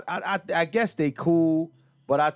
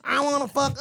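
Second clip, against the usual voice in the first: mocking flat rapper voice; 9 semitones higher than usual. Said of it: "she don't have any inflection".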